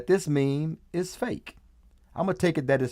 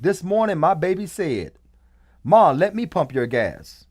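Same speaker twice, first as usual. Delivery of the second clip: repeating the meme; 3 semitones higher, 3 dB louder than usual. Retold or imitated. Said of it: "I repeat".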